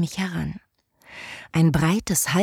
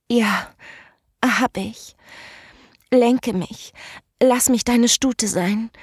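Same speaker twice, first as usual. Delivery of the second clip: höher und lauter, mit zitternder Stimme; bebende Stimme; 5 semitones higher, slower than usual. Acted. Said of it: "mit bebender Stimme". (aufgewühlt, mit bebender Stimme)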